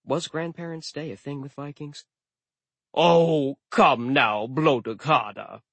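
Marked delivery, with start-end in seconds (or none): 2.9-5.6 cheerful. Acted. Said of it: "the god said cheerfully".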